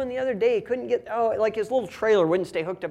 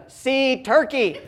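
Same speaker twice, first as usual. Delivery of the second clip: put-on laughing toddler echo; 4 semitones higher, 6 dB louder, much slower than usual. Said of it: "five minutes of".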